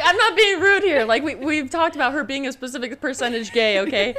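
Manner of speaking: laughing protest. Retold or imitated. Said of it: "I'm like".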